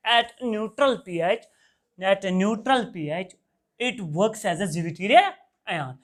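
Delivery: very slow, word-by-word dictation; teacher dictating a definition at writing pace; dictating notes. Acted. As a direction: spell it out slowly so the class can write.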